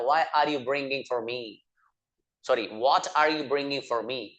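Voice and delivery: very slow, every word spelled out for learners; slow model sentence. Shown as a demonstration. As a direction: say it slowly so students can repeat. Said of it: "बोला जाता है". (बहुत धीरे, साफ़ बोलकर)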